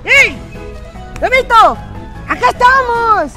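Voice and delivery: calling out. Acted. Calling across the field.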